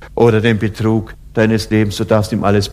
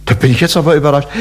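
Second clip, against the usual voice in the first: mock surprise; 2 semitones higher than usual. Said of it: "dass er dann sagt".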